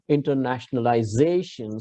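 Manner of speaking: internationalization with a drawn accent on "za"; stress on penultimate ZA. Shown as a demonstration. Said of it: "you have to put an accent".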